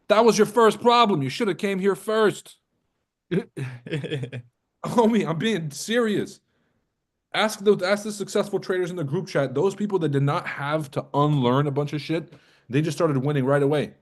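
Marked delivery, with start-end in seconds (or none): 0.1-8.0 emphatic pitch. Acted. Pitching his class.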